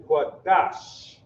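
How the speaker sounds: QUADASH with stressed DAHSH, closing on a long sh; soft sh ending. Shown as a demonstration. Teacher reading the example word, QUADASH ending in long sh. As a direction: stretch the final sh of QUADASH. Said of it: "That sh sound".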